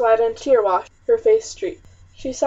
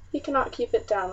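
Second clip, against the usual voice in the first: softly, with a catch of grief in the throat; voice breaking; 5 dB quieter than usual. Acted. Mother over her sick baby, voice breaking. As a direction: let the words crack as the tears come. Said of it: "Elizabeth's voice broke".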